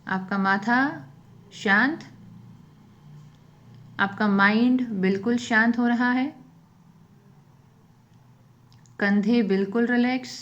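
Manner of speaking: unhurried phrases, leaving silence after each instruction; guided meditation. Real, not acted.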